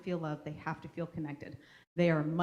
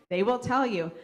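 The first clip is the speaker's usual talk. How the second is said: "They will tell you" said higher and louder, "tell" hit hard; louder emphatic; 5 semitones higher, 9 dB louder than usual. Real, not acted. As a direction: push "tell" up and out with force. Insisting kids will correct you.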